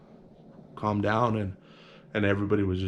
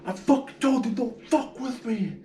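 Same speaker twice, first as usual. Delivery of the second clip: high, fierce yell that slows down at the end; imitated angry taunt; 13 semitones higher than usual. The black guy snarls a warning at the beaten cholo. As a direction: throw the warning down at the loser. Victor yells at beaten man.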